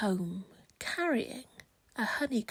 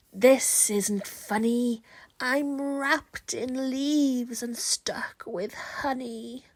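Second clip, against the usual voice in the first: grumpy trapped wizard; slower than usual. Acted. Trapped wizard wakes, complaining.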